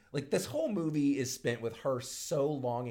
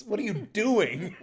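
high, drawn-out exasperation through laughter; playful incredulous reproach; laughing mock scolding; 8 semitones higher, 5 dB louder, slower than usual. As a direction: stretch it out, louder and higher, laughing. Mock scolding of film character, laughing.

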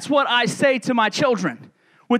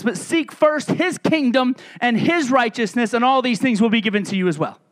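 scripture reading. Acted. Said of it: "the Bible says".

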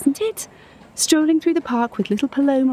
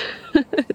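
brief, airy chuckle; wistful little laugh; 5 semitones higher than usual. Acted. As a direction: laugh lightly at your own romantic line. Amused at star-crossed lovers line.

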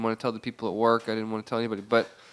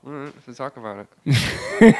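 slow and louder, through clenched teeth; 7 dB louder than usual. Real, not acted. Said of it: "He says through clenched teeth".

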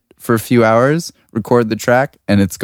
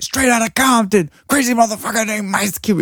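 put-on high, hushed awestruck kid; hyped kid voice; 11 semitones higher than usual. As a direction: gush it like a starstruck young fan. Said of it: "and then I'm just like".

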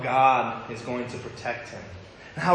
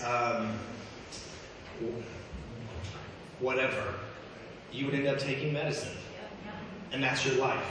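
doctor's sober verdict; 9 dB quieter than usual. Retold or imitated. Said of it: "the doctor literally had to tell me".

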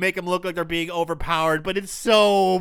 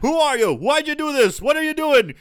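mock shaking interrogation; 8 semitones higher than usual.

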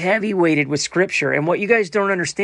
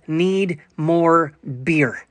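mock sign voice; much slower than usual. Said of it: "She stands in the window that says".

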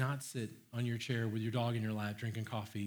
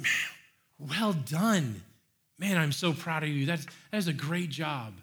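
excited; slower than usual. Retold or imitated. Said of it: "spoken with excitement".

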